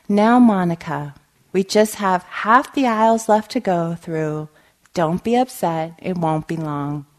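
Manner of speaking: usual speaking voice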